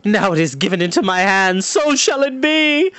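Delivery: a power-mad steward crowning himself; gloating villain. Acted. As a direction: savour each word as you take the crown.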